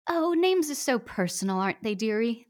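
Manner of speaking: lightly voiced old woman. Disguised man as old woman answering the author, lightly high. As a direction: coo it like a doddering granny. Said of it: "shaky old woman's".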